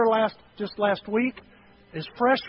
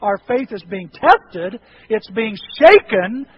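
firm reply; 6 dB louder than usual. Retold or imitated. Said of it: "I said".

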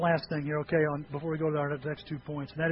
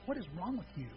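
flat quiet spouse; 10 dB quieter, faster than usual. Retold or imitated. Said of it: "Has your spouse looked at you lately and went".

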